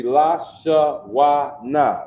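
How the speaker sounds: LA, SHA, WA, NA each said separately with a full ah; syllable by syllable. Shown as a demonstration. Teacher showing a class the characters, syllable by syllable. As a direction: spell it out in syllables, ending on a hard NA. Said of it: "It's a na".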